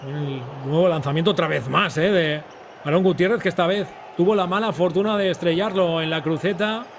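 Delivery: excited commentary. Real, not acted. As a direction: raise it as the shot flies. Shot hits the crossbar.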